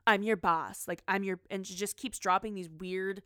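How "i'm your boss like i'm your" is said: loud, bossy mock orders; hammed-up boss telling staff off. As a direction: bark it like a pushy boss. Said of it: "she's like".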